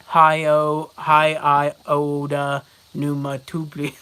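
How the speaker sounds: hint of a mock Chinese accent. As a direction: imitate an order in a light Chinese accent. Imitating a restaurant phone order.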